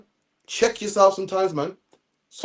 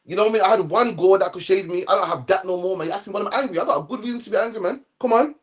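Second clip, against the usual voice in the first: complaining Jonah. Retold or imitated. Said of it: "He said".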